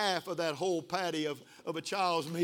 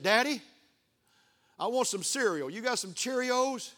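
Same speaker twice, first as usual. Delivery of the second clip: put-on higher, hopeful little-boy asking; lightly voiced child; 6 semitones higher, 3 dB louder than usual. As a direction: imitate a small grandson asking his father. Voices his little grandson asking.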